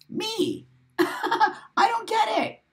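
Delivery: mock confusion. Mock bewildered squeak.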